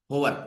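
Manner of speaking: होवर with the h sounded at the start; होवर said with a clear h; wrong h sound. Shown as a demonstration. Teacher shows students the wrong way to say होवर. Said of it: "not होवर".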